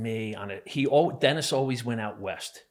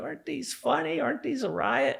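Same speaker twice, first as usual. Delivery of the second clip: put-on very high, giggling little-kid laughing voice. Retelling a man showing off photos, imitating laughing like a little kid. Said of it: "he's laughing like a little kid".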